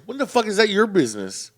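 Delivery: mock outrage, voice jumping up; retold indignant dad. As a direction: push back like an affronted dad. Dad snapping back at stranger.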